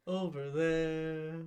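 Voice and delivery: slow, low mocking "Over there"; mock stern order. Mocking Grey's command to his co-host, slow and low. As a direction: drag "Over there" out slowly to mock him. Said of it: "I order".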